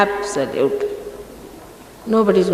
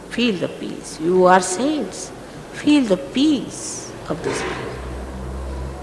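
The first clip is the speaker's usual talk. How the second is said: much softer and slow, fading toward a whisper; 6 dB quieter, much slower than usual. Real, not acted. Guru inviting disciples to feel the place's peace, soft and slow. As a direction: coax them gently into stillness.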